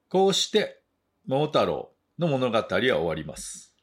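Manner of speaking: slow, deliberate English with Japanese translation after; measured bilingual storybook reading; story narration. A narrator's reading. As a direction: read a folk tale to language learners.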